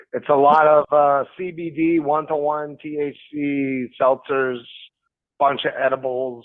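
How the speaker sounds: relaxed, unhurried delivery. Real, not acted. Caller telling the host what he's drinking tonight, very relaxed. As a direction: take it easy and smooth, in no rush. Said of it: "you sound very relaxed, very smooth".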